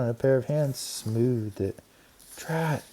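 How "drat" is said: high annoyed mouse voice. A narrator's reading. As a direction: mutter drat like a mouse. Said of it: "thought Ralph".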